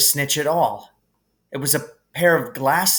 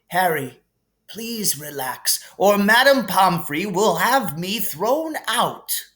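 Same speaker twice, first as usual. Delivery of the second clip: higher, gently amused headmaster voice; kindly old headmaster; 7 semitones higher than usual. Acted. Dumbledore calming Harry in the hospital wing, gently amused. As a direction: soothe the boy like a kindly wise old wizard.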